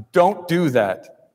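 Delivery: slow, weighty "Don't do that."; emphatic. Retold or imitated. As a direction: lean on every word of "Don't do that.".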